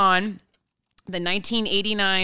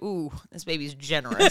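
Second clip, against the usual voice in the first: laughing doctor quote; 4 semitones lower than usual. Retold or imitated. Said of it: "they were like".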